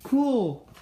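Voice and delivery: high, loud burst of real delight; excited squeal. Real, not acted. Kid unboxing a rare sparkly toy, excited high squeal. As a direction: squeal it, you just pulled the rare sparkly one.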